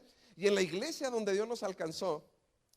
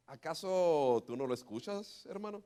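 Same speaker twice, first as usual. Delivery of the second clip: lower pastor voice; 4 semitones lower than usual. Retold or imitated. Pastor's reply retold.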